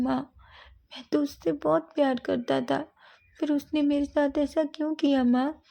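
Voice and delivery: high, tearful voice, slowing on the broken lines; heartbroken crying. Acted. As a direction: sob out the heartbreak. Heartbroken son crying to mother.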